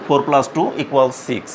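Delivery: four plus two equals six spelled out slowly, word by word; slow English read-out. Shown as a demonstration. Teacher modelling the English reading for new pupils, slow. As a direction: read it out like a dictation for beginners. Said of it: "ঠিক একই রকম এখানে ইংলিশটা আমরা কি".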